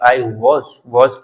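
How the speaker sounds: "was" as rounded wawz; recommended pronunciation. Shown as a demonstration. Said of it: "तो ऐसा बोल ले". ("was" को वॉज़ बोलें)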